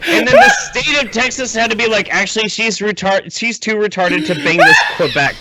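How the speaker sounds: high, laughing through the words; can barely get it out for laughing; incredulous laughing rant; laughing disbelief. Real, not acted.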